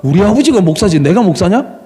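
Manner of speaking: 어린 시절의 당돌한 항변을 흉내 내며; 기죽지 않고 따지듯이; 당당한 말대꾸. Retold or imitated. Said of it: "저는 당당하게 이야기했어요". (아이의 당당한 항변을 재연)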